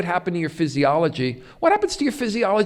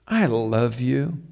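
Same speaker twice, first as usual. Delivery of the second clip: tender and slow; 5 semitones lower, slower than usual. Retold or imitated. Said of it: "when somebody says".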